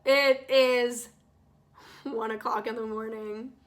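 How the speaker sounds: "It is" held out firmly, then a pause; stressed for emphasis. Real, not acted. Storyteller stressing how late it was, "It is" emphatic. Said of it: "I should stress that".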